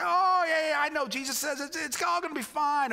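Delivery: hammed-up cheerful reassurance; mock breezy dismissal. Pastor mocking churchgoers waving off the pastor's grief, breezy. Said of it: "we say".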